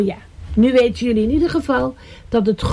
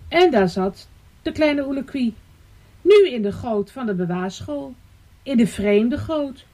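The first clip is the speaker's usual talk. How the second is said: pausing, melodic storytelling; story narration; 2 semitones higher than usual. A narrator's reading. Storyteller shows the bird left in a strange gutter, story narration. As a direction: let each phrase land for young listeners.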